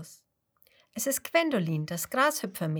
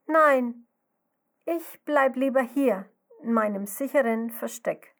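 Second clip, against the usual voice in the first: a touch of fear in a high, loud no; anxious refusal; 4 semitones higher, 5 dB louder than usual. Acted. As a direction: timidly insist on staying hidden. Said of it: "schüttelt ängstlich ihren Kopf".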